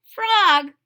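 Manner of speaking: Toad's voice. Acted. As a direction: call out to your friend as Toad.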